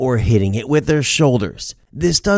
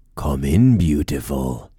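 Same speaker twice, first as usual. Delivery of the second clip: masculine voice, much lower; 10 semitones lower, 3 dB quieter than usual. Retelling the reply heard after calling out housekeeping, in a low masculine voice. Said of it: "answered in a low, masculine voice".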